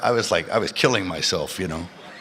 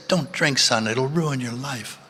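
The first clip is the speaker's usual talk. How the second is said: higher, slow imitation of a mother's warning; 6 semitones higher, slower than usual. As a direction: mimic mom cautioning her son. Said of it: "She said".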